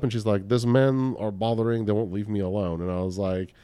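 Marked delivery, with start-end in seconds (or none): 0.5-2.8 imitated Russian woman's accent. Woman telling a stranger men are bothering her, Russian accent. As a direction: retell her plea in a light Russian accent. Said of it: "thick Russian accent".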